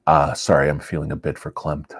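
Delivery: a hint of an old East Coast Jewish man; East Coast Jewish accent. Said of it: "like an old, uh, Jewish man from the East Coast".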